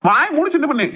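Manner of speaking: acted angry rebuke. Husband silences his protesting wife, angry rebuke.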